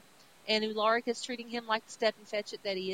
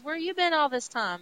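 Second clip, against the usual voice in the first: surprised janitor; 6 semitones higher, 5 dB louder than usual. Retold or imitated. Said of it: "The janitor sees him and says".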